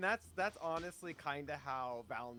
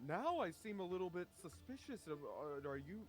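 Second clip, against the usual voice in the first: 1 suspicious elf; 5 semitones higher than usual. Acted. Elf voiced, acting suspicious.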